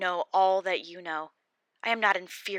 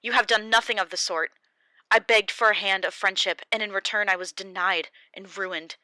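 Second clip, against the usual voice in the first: loud, higher, wounded accusation; bitter Job; 3 semitones higher, 7 dB louder than usual. Acted. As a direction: pour out the betrayal. Job answers Bildad bitterly.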